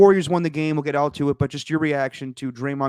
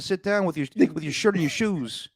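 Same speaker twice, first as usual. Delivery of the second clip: mock heckle; 5 semitones higher than usual. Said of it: "you're screaming from behind".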